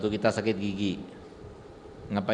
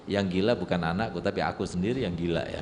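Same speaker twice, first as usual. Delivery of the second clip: lower, softer, rueful father; a father concedes to his son, lower and sheepish; conceding father; 5 semitones lower, 4 dB quieter than usual. Acted. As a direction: admit it sheepishly like a humbled dad. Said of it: "apa kata ayahnya?".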